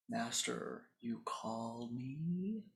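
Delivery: a slow, low, hushed demon summoning reply. Acted. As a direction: drawl it like a summoned spirit. Demon answers the disciple's call.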